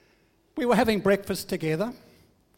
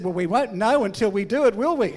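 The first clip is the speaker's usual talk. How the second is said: put-on cheeky child; 2 semitones higher, 6 dB louder than usual.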